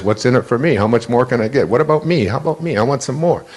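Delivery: "What's in it for me" pitched a bit up in a mock whiny grab; greedy ego voice. Speaker mimicking the greedy ego for the audience, mock whiny. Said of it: "the mantra of the ego is".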